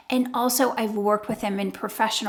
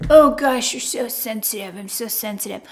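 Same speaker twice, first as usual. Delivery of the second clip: mocking sigh; 2 semitones lower, 4 dB louder than usual. Narcissist mocking the listener.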